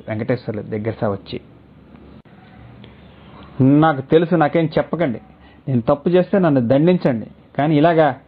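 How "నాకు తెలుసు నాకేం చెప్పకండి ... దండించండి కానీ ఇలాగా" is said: higher, tearful pleading; choked with tears. Acted. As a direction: speak through a choking throat, begging. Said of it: "కన్నీళ్లలోంచి గాద్గద్యంలోంచి అంది". (కన్నీళ్లతో గద్గద స్వరం)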